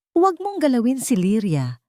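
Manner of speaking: stern, emphatic threat; firm warning. A narrator's reading. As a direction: lay down the law to her. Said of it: "madiing sabi ni Alessandro".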